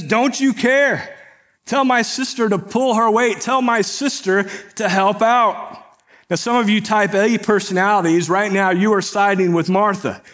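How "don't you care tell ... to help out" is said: higher, mildly exasperated retold outburst; heated complaint. Stressed host complaining to Jesus, a touch heated. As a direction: act out the flustered sister venting, lightly. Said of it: "She is heated".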